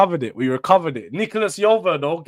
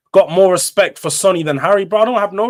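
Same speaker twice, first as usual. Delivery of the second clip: raised, emphatic fan declaration; loud declaration; 4 semitones higher, 7 dB louder than usual. Real, not acted. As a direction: declare it loudly with a rising push on "got". Passionate fan declaring loyalty.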